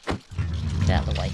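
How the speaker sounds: slow, low grumbling command; gruff low voice. Pretend. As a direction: growl it slowly at the mob. Shoving mobs aside.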